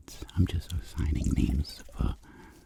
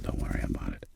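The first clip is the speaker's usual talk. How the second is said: mobster voice; 3 semitones lower than usual. Pretend. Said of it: "I'm like".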